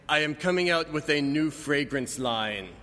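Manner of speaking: lightly voiced suave model, slow; a hint of a smooth fragrance-ad Fabio, drawn out; Fabio imitation. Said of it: "I'm gonna do my best, uh, Fabio imitation".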